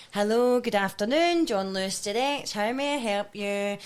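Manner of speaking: mild phone-operator voice; call centre greeting. Retold or imitated. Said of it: "it would be like".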